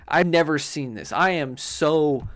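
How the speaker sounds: loud, worked-up indignation; playfully fuming, leaning hard on the words; mock outrage; riled up. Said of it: "got me a little riled up".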